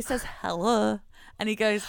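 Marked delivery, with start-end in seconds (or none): 0.4-1.0 put-on baby's hello in a Yorkshire accent; short Yorkshire-accented "Hello". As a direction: imitate a baby saying "Hello" with a Yorkshire accent. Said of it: "he says it in Christian's accent".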